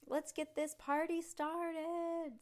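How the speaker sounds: high, slow, drawn-out party announcer; hype announcer. Acted. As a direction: stretch it out like a bowling alley MC. Announcer pin guy hypes crowd.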